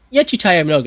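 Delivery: Я читаю много said in plain Russian; Я читаю много spoken plainly; Russian quote. Shown as a demonstration. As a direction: read Я читаю много as a simple Russian sentence. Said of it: "It's like".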